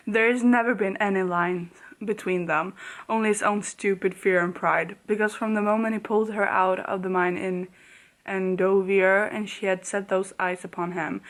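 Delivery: reading the romance aloud, softening at the end; story reading. Acted. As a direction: read it tenderly like a storyteller. Reads book aloud.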